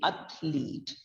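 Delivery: athlete as two syllables, ath-leet, dropping low; two-syllable pronunciation. Shown as a demonstration. Teacher breaking the word into syllables, two-syllable pronunciation. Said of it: "It is broken into s-, two syllables".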